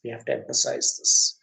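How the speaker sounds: "we have to emphasize this" repeated in a soft whisper; whispered echo. Shown as a demonstration. Teacher repeating the point to students in a whisper.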